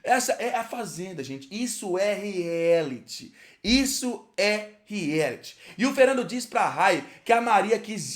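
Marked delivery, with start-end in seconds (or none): 1.5-5.6 "Isso é reality" very slow, word by word; emphatic repetition. Real, not acted. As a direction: stretch "Isso é reality" with pauses between the words. Repeats verdict for emphasis. ("Isso é reality" pausado, palavra por palavra)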